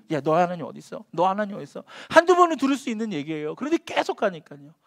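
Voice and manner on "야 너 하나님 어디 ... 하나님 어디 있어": mock taunt. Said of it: "계속 달라붙어서 하루 종일".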